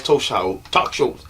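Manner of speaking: British talk shows; posh British accent on talk shows. Shown as a demonstration. British accent showing off his British voice. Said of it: "That's my British voice".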